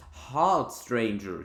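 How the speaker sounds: lightly voiced villager stopping the traveller; commanding villager. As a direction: bark it out like a village guard. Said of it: "he commands".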